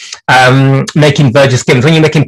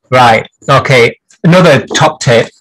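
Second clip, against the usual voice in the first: put-on light East Yorkshire accent on a tip; a touch of East Yorkshire, half in jest. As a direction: slip into a hint of East Yorkshire. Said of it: "My best East Yorkshire accent there".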